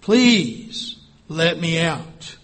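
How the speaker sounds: slow, breathless plea; gasped. Acted. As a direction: gasp out the words in the heat. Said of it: "I gasped".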